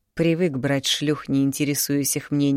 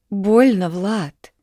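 a mild whine of pain, higher; whimpering; 5 semitones higher, 5 dB louder, much slower than usual. A narrator's reading. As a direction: whine his name like a hurt girl. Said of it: "захныкала Марина". (хныкая, жалобно)

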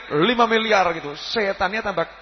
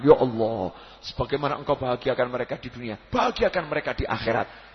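calm prayer; 7 semitones lower, 3 dB quieter than usual. Retold or imitated. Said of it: "angkat tangan".

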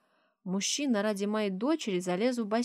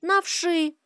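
put-on high, loud child's shout; little girl yelling out loud; 11 semitones higher, 7 dB louder than usual. A narrator's reading. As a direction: blurt it out at full voice. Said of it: "Громко вопит".

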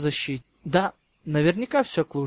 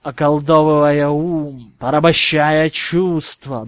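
sinister purr; 6 dB louder, slower than usual. Acted. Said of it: "вкрадчивым и зловещим тоном".

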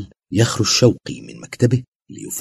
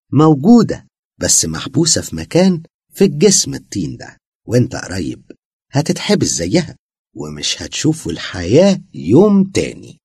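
higher, louder mocking demon; demon threat; 7 semitones higher, 4 dB louder than usual. A narrator's reading. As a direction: gloat over the trapped soul. Demon answers Basem. (تهديد شيطاني)

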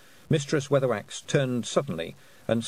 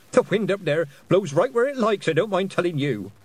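put-on cheerful old witch; 7 semitones higher, 4 dB louder than usual. Nanny Ogg's voice.

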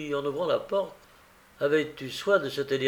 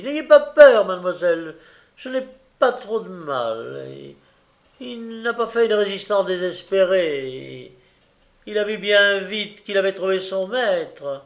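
raised, high voice, opening on a shout; boastful calling; 5 semitones higher, 7 dB louder than usual. A narrator's reading. Gilles reassuring mademoiselle from below, loud and boastful.

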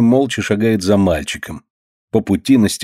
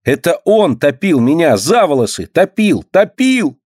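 climbing higher with each топил; rising shriek; 7 semitones higher than usual. A narrator's reading. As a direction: scream the accusation, building. Girl shouts accusation, rising.

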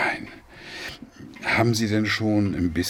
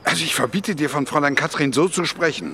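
firm, raised and quickening forbidding; stern rebuke; 5 semitones higher, 4 dB louder, faster than usual. Acted. Father forbids daughter insulting guest, stern raised voice. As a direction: lay down the law, rising.

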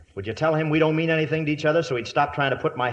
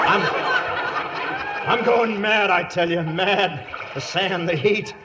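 high, hammed-up panic rising to cries; squeaky panicky sidekick; 6 semitones higher, slower than usual. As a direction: beg for water, rising to squeaks. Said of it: "squeaky panicky sidekick".

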